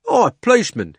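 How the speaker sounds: high, loud hail; calling out. A narrator's reading. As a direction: call over the crowd. Cabby calls out.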